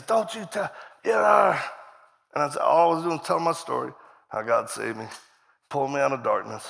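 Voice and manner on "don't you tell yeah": angry yell. Retold or imitated. Retelling the demonized kid lashing out, an angry yell. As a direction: shout it at him.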